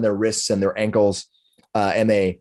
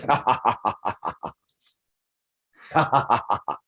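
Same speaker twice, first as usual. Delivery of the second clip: staged laugh; 4 dB quieter, faster than usual. Acted. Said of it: "he laughs".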